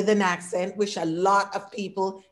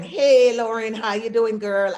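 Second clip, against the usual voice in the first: put-on loud, loose friendly hey to a girlfriend; casual greeting to a friend; 3 semitones higher, 5 dB louder than usual. Greeting her friend Lauren outside work, casually loud. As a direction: call out to a close friend, relaxed. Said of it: "That is code switching".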